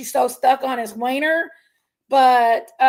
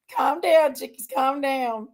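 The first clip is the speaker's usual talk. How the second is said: settling self down; slower than usual. Real, not acted. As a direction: talk yourself down, slowing at the end. Talking herself down after outburst.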